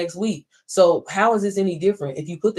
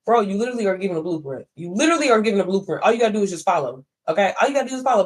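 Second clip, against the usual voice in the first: exasperated rant; faster than usual. Retold or imitated. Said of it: "And I'm like".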